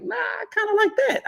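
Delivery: playful falsetto self-quote; mock squeaky reaction. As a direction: squeak it out in a silly high voice. Voicing own reaction.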